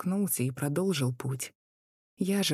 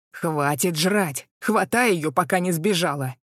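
shrill shriek; 7 dB louder than usual. A narrator's reading. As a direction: shriek at him like a furious crone. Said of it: "Противно взвизгнула старуха". (противный визг старухи)

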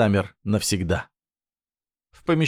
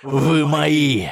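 booming arrogant alien overlord; 5 semitones higher, slower than usual. A narrator's reading. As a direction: menace them with swelling contempt. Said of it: "Его голос звучал всё более агрессивно".

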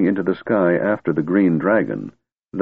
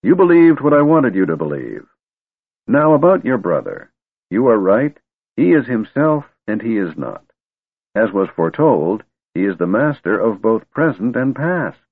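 put-on grumpy old wizard; 4 semitones higher, 3 dB louder than usual.

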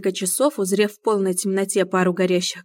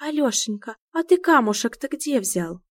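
cartoon quote; 5 semitones higher than usual. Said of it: "повторил интонацию вопроса".

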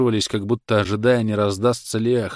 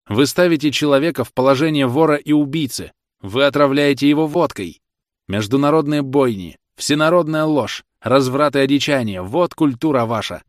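loud, higher accusing tirade; fiery denunciation; 6 semitones higher, 6 dB louder than usual. Acted. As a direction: throw every charge back at the judges. Defendant denounces the court.

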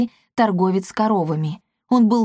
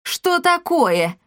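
indignant surprise; 10 semitones higher, much slower than usual. A narrator's reading. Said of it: "выпучил глаза Макласки".

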